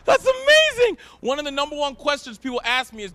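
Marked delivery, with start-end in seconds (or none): 0.0-1.0 high mock-amazed sarcasm; sarcastic high delight. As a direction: gush it with fake awe. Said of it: "And you're like".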